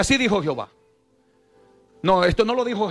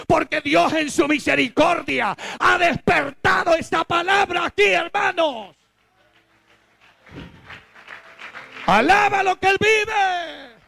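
shouted preaching; 9 semitones higher than usual. Acted. Pastor exalting the congregation's preachers, high fervent shout. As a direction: lift the church with a shout.

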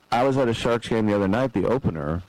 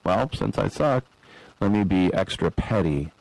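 a hint of a petty ref dropping lower; 4 semitones lower than usual. Imagined ref answering the chanting fans, petty. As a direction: sink into a spiteful ref's inner voice. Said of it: "I'm like".

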